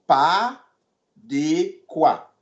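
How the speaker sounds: Pas, then de quoi after a pause; split into two parts. Shown as a demonstration.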